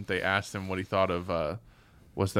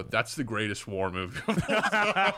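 laughing mock. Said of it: "someone would go".

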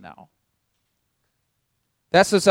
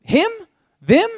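indignant; 5 semitones higher, 4 dB louder, slower than usual. Acted. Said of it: "we stand back and go".

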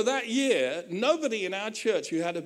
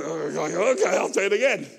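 lightly voiced compliant helper; resigned scribe; 4 dB louder than usual. Scribe giving in to Paul, lightly voiced resignation. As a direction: shrug it off, a hint of a resigned scribe. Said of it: "I was thinking".

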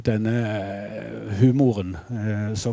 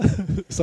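king's chuckle; 7 semitones higher than usual. Retold or imitated. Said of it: "lo han litt på den spesielle måten".

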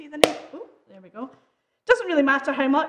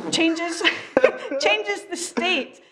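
laughing; 5 semitones higher, much slower than usual. Real, not acted. Laughs at own chemistry guess.

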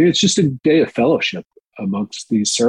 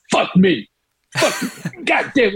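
mock amazement; 13 semitones higher, slower than usual. Rudy's amazed reaction retold.

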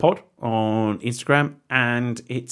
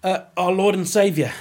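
mock reverence; 6 semitones higher than usual. Mock worship of Statham.

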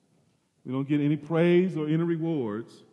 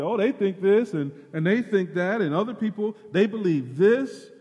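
lightly hammed-up eager disciples; mock eager chatter; 4 semitones higher, 4 dB louder than usual. Disciples chattering about what the crowds say. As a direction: rattle off opinions eagerly. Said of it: "all of them are speaking up and say".

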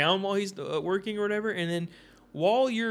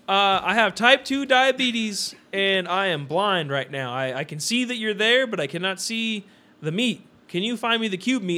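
higher, slow mock declaration; imitated stranger; 4 semitones higher, 5 dB louder, slower than usual. Diabetic stranger asking the butcher for help, mock declaring. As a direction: imitate a man laboriously explaining his problem.

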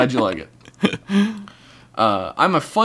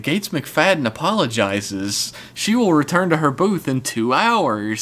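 loudspeaker announcement; 2 semitones higher, slower than usual. Retold or imitated. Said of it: "it would be like".

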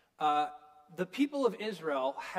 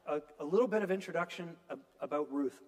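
speaking with a parched mouth; talking through a dry throat; 4 semitones lower, faster than usual. Real, not acted. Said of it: "my mouth is so dry today".

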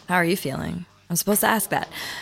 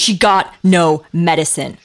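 louder, slow, each word hammered; insistent anger; 3 semitones lower, 5 dB louder, slower than usual. Acted. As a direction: drive it home slowly and hard. Repeating her point in argument.

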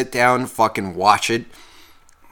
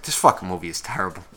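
low, soft, quick aside; dejected retold grumble; 6 semitones lower, 6 dB quieter, faster than usual. Viewer sitting there after the horse disappears, dejected grumble. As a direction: drop down low and soft, fed up. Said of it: "I just sat there. I was just like".

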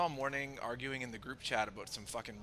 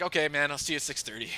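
breezy brush-off; 4 semitones higher, 10 dB louder, faster than usual. Retold or imitated. Retold calm brush-off.

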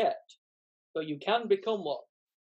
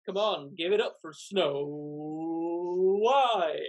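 game show host. Acted. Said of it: "acts like a game show host".

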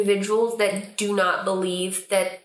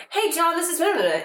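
higher-pitched greeting that turns to mumbling; loud mumble; 8 semitones higher than usual. Acted. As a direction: greet brightly, then fudge the name into a mumble. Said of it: "mumble loudly when I introduce people".

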